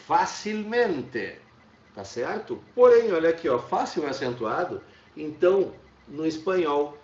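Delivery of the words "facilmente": facilmente said slowly, syllable by syllable, stress on men; slow pronunciation demo. Shown as a demonstration. Teacher spells out facilmente slowly for the class. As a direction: draw out facilmente so the tonic syllable is clear. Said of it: "o advérbio de modo com o fácil, pra nós é".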